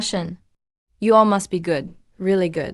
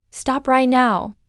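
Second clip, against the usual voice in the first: slow command; 3 semitones higher, slower than usual. Acted. Ordering everyone to stop.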